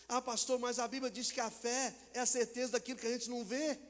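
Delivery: mock objecting churchgoer. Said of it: "objeção imaginada de fiel".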